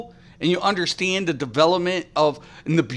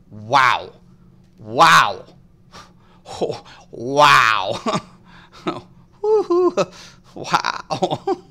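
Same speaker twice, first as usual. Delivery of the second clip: mock cheering; much slower than usual. Real, not acted. Mocking a viewer with fake cheering, laughing. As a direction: cheer falsely through laughter.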